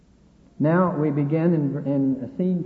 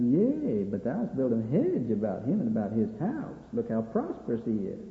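lightly acted sneer, swooping up on key words; sneering Satan; 5 semitones lower, 4 dB quieter than usual. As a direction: sneer it back, a touch quieter, with mocking swoops. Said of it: "Satan sort of sneers back".

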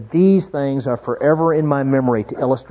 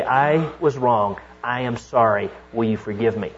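soft humble confession; 5 semitones lower, 6 dB quieter than usual. Retold or imitated. Humble confession voiced softly.

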